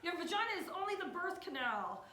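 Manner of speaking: high, loud mock yelling; Betty Dodson. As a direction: yell it like an indignant correction.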